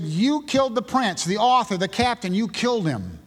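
retold accusation, starting high and coming down; blaming. Preacher quotes Peter blaming the leaders, high accusation easing downward. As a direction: lay the blame on them, pitch stepping down. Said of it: "blaming them".

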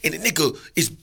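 a dog bragging about his yard, building into a yell; hammed-up dog. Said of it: "so the dog's like".

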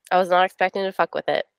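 quick, voiceless whisper of a confession. Real, not acted. Whispering to her book club co-hosts about a book. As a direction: hush it like a naughty secret.

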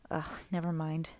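under the breath, unvoiced and given up; muttered aside. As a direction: whisper it away in disgust. Grover gives up lecturing.

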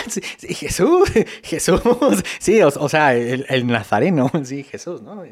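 embarrassed laughing backpedal; nervous laughter. Acted. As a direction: laugh it off awkwardly. (risa nerviosa y avergonzada)

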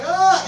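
short high mock yelp; startled cry. Friends react to Sal calling their names, startled yelp. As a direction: act out a startled group cry.

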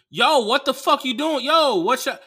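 loud, high furious shout at the driver; angry yell. Retold or imitated. Passenger yelling at the Uber driver, furious shout. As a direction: yell at him mid-crash.

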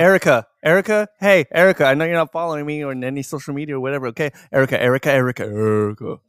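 loud, playful calling out Erica. Real, not acted. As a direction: shout the name at her. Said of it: "I'll say it".

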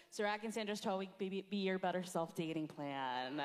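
loud joke-programme reveal; playful, projected sales title; mock title announcement. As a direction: announce it like a silly product.

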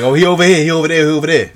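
excited friend. Retold or imitated. Friend pointing out Remy to the teller, excited. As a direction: imitate a friend urgently giving away a location.

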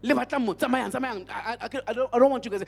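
agitated, forceful mock dismissal; imitated chasing away. Retelling a scared Sangoma turning away visitors, imitated agitated dismissal. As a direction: shoo them off, stumbling over the words. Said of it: "this Sangoma is chasing them away".

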